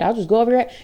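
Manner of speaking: a touch of snide mimicry, dropping off; mocking threat. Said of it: "other people who are like".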